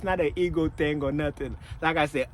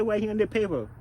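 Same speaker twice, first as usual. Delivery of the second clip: pushy manager; 5 semitones higher than usual. Retold or imitated. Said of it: "He said".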